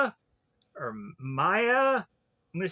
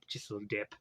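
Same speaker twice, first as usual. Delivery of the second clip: much lower, near-whispered repeat; sly whisper; 12 semitones lower, 13 dB quieter, much faster than usual. Pretend. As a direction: murmur it like a secret. Sly repeat after take a little dip.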